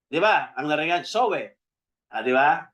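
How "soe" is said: "soe" na may "we" sa dulo, bigkas-Pilipino; maling bigkas. Shown as a demonstration. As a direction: say "soe" the Filipino way, as "so-weh". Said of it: "Pero mali pa rin sa English". (maling bigkas na "soe", parang "so-we")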